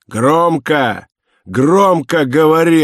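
loud command. A narrator's reading. Inspector orders prisoner to speak up, loud command. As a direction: demand it loudly and forcefully.

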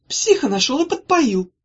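high, loud scolding; angry. A narrator's reading. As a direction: keep scolding him. Sister still scolding brother.

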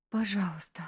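a touch of pleading. A narrator's reading. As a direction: beg him gently, understated. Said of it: "взмолилась она".

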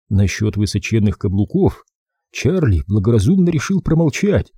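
usual speaking voice

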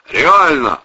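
loud barked answer; gruff loud bark. Acted. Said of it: "рявкнул Протасов".

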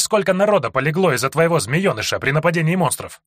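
народа stressed, scornful question; defiant accusation. Acted. Hero taunts the snake lord. (с упором на «народа», обвиняюще)

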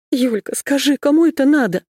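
high, tearful, on the edge of sobbing; near tears. A narrator's reading. Masha to her friend about the murder, close to tears. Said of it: "точно она готова была разрыдаться".

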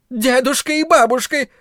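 high shrill shriek of disbelief. A narrator's reading. Carla shrieks at her husband's news, very high. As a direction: squeal it in outrage. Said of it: "взвизгнула она".

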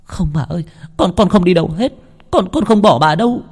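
cling on, begging through tears; tearful pleading. Acted. Đào clinging to her grandmother's feet, refusing to leave in tears. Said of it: "mà sụt sùi khóc".

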